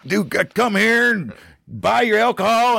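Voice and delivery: high, hammed-up Western accent; cowboy outlaw with a Western accent. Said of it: "our outlaw voices are always, a Western".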